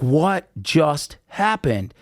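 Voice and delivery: slow, dazed disbelief; drawn out, still in shock; stunned. Retold or imitated. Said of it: "And I'm like".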